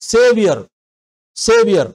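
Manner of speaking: సేవియర్ with the final r kept; Indian-English సేవియర్; Indian-accent Saviour. Shown as a demonstration. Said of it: "Indian యాక్సెంట్లో ఆర్ పలికినా".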